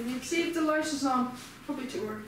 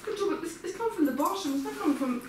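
real exasperation, pitched higher; higher, agitated complaint, stumbling over repeats; exasperated; 5 semitones higher than usual. Real, not acted. Complaining to a companion about a leaking spray, exasperated. Struggling with a spray that won't open.

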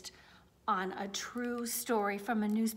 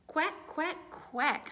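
ducklings quacking; 7 semitones higher, much slower than usual. Acted. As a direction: chirp them like tiny ducklings. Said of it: "say the ducklings".

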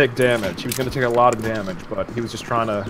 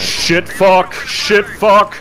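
frustrated cursing; 7 semitones higher, 3 dB louder, much slower than usual. Real, not acted. Cursing mid-fight.

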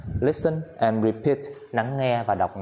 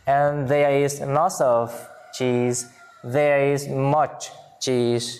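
slow, careful teacher reading; slow model reading; 2 semitones higher, much slower than usual. Shown as a demonstration. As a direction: read slowly for pupils to repeat. (giáo viên đọc mẫu chậm rãi)

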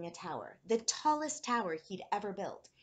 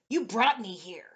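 loud, forceful creature voice; Anger creature; 2 semitones higher, 10 dB louder than usual. A narrator's reading. Red creature tells boy who summoned it, forceful. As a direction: throw it at the child, loudly.

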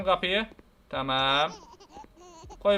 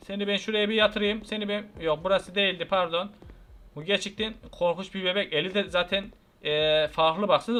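ordinary delivery

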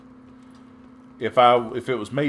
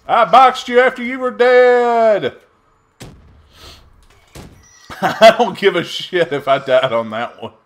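high, loud triumphant yell with a laugh; gleeful shout; 8 semitones higher, 8 dB louder than usual. Real, not acted. Gamer gloating at a dead enemy, loud laughing yell. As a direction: crow over the kill. Gloating over in-game kill.

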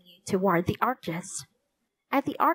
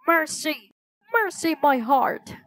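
higher-pitched, theatrical distress; mock panicked cry; 6 semitones higher than usual. A narrator's reading. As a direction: wail as if the heart is failing, lightly. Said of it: "the man shouted".

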